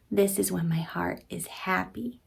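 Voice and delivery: soft unvoiced whisper of a happy secret. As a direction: breathe it like telling a child a secret. Reading story to children, whispered.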